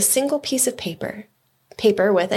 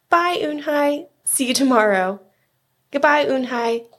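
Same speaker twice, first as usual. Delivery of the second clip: friends' goodbyes; 6 semitones higher than usual. A narrator's reading. New friends saying goodbye.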